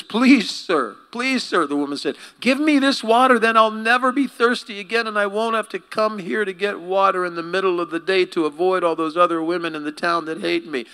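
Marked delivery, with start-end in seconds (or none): 0.0-1.7 high, louder pleading plea; pleading woman. Acted. Woman at the well begs Jesus, high and pleading. 2.4-10.9 high, louder pleading plea; pleading woman. Acted. Woman at the well begs Jesus, high and pleading.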